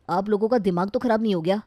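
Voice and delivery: indignant challenge to the family; angry. Acted. Son to his family on hearing of his marriage, mildly angry. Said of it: "वो और भी गुस्सा हो जाता है".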